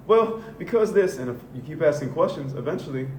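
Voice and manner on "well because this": high, loud, whiny sneer; hammed-up indignant jeer; mock racist retort. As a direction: mimic a defensive bigot. Racist answering his question.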